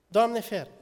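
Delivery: emphatic exclamation. Real, not acted. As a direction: throw it out to the congregation, alarmed. Repeated exclamation, second louder. (exclamație apăsată, mai sus și mai tare)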